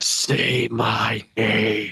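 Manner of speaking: low, quiet whisper. Voicing a whisper in a player's ear as they're pulled under: whispering voice. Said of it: "you hear a whisper in your ear".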